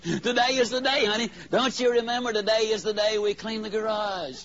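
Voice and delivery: lightly voiced wife sweetly insisting; sweet pleading wife. Wife reminding husband of garage day.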